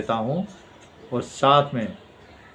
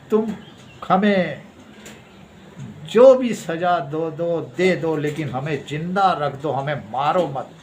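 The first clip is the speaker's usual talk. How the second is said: mock begging; 3 semitones higher than usual. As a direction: mimic someone bargaining for their life. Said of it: "यही भीख मांगते हैं ये लोग". (भीख माँगने की नकल)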